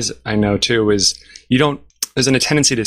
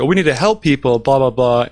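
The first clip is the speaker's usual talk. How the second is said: mocking; 2 semitones higher than usual. Mocking lip service.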